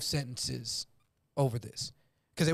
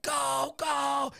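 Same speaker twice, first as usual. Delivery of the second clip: panicked urging; 10 semitones higher than usual. Retold or imitated. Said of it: "They're like".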